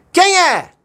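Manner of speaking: high, loud yelled "Quem é?"; boy shouting up the mountain; angry shout. Acted. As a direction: shout out at the hills, annoyed. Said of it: "ficou bravo e gritou assim".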